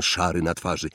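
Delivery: plain reading voice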